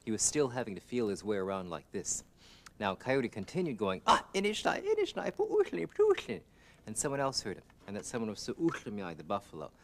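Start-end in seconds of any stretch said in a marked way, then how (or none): 4.1-6.4 high, loud keening wail; pitiful wailing. Acted. Blind Coyote wails for help, high keening wail. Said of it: "How come you screaming around".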